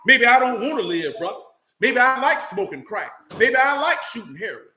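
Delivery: hammed-up rebellious retort; mock defiant sinner. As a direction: sneer back at the one warning you. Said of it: "you telling me".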